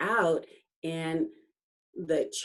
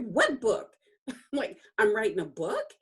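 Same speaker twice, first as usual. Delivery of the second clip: baffled disbelief; 5 semitones higher, faster than usual. Retold or imitated. Acts out her baffled reply.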